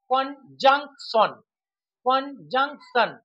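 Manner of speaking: কনজাংশন in three slow beats; broken into syllables. Shown as a demonstration. Teacher demonstrating trisyllables, কনজাংশন slowly split in three. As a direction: say কন, জাং, শন with gaps. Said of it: "তিনটি syllable থাকে".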